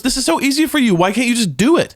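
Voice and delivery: high-pitched exasperated retelling; imitating pissed off. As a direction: mimic a therapist fed up with a stubborn client. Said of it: "the hypnotist was, like, pissed".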